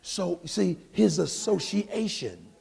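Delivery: normal talking voice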